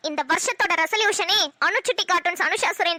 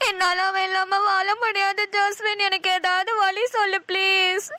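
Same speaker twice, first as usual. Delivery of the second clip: slow, tearful plea; drawn-out acted wail for help; crying; slower than usual. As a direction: beg a friend through tears. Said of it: "ஏன்டி new year அதுமா அழுதுட்டு இருக்க".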